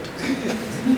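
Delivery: short breathy laugh of derision; scornful laugh. Acted. Man mocking his unemployed brother, scornful laugh. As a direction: laugh at the hypocrisy.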